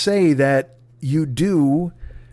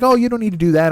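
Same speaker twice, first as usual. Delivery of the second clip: super friendly; 7 semitones higher, 3 dB louder, faster than usual. Retold or imitated. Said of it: "she's super friendly".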